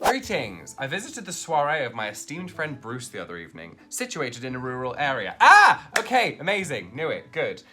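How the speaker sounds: lightly voiced stuffy gentleman; posh formal translation. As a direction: read it like an overly proper butler. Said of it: "posh translation of slang".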